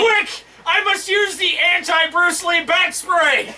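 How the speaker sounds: high, laughing hammy hero shout; campy superhero. Pretend. Hammed-up Batman cry.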